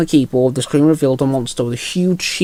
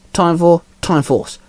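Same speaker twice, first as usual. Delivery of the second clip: called out, slow; 3 semitones higher, slower than usual. Acted. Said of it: "Luca called out".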